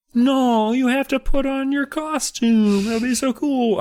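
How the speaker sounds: very slow cartoon frog voice. Retelling what the girls say when they get there, in a Kermit voice. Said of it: "I'm doing a Kermit voice for that".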